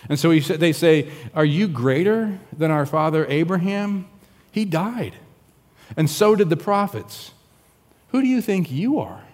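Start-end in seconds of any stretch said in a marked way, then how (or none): 1.3-9.2 higher, scornful disbelief at Jesus; indignant challenge. Acted. Crowd confronts Jesus, indignant and high-pitched. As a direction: push back hard, offended.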